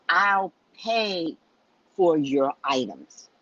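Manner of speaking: each word weighed, "for your items" slowed; emphatic. Retold or imitated. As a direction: say it firmly so she finally hears. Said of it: "I have to say it emphatic".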